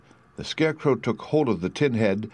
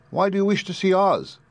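creaky Tin Woodman; 11 semitones higher than usual. A narrator's reading. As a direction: creak out the plea like a stiff tin man.

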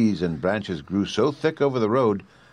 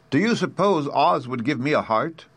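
creaky Tin Woodman; 6 semitones higher than usual. A narrator's reading. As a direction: creak out the plea like a stiff tin man.

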